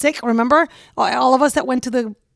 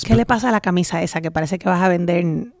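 mean in Spanish; 4 semitones lower, faster than usual. Shown as a demonstration. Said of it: "say something mean to Brian in Spanish".

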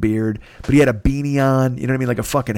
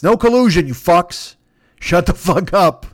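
mock rant; 5 semitones higher, 4 dB louder than usual. Ranting at Russian in theater.

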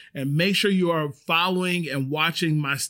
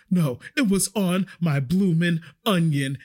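mock panicked customer. Customer protesting about the slug to her waitress, mock panic. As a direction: imitate a freaked-out diner, word by word. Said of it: "she was literally talking like this".

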